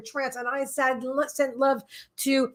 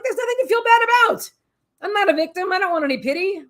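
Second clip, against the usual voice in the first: higher-pitched, insistent retort; emphatic self-rebuttal; 7 semitones higher, 3 dB louder than usual. Retold or imitated. Speaker answering own thoughts of seeking pity, emphatic and insistent. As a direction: push back firmly, pitched up in protest. Voicing her firm reply to herself.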